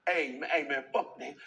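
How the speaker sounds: put-on casual Black American street accent. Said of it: "that black American accent".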